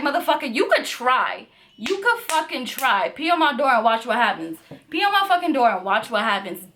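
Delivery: defiant, daring him to try; retold threat. She dares the guest to pee on the door, defiant. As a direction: throw the dare back hard. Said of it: "And I was like".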